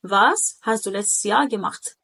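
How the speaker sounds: letztes snatched in one go, no break; said in one sweep. Shown as a demonstration. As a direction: run letztes Jahr through on one line. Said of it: "اتخطفت مرة واحدة". (نطق letztes مخطوفة مرة واحدة)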